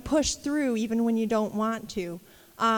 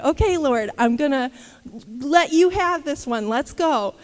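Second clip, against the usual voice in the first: resigned surrender; 5 dB louder than usual. Retold or imitated. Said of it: "I'm gonna go anyway".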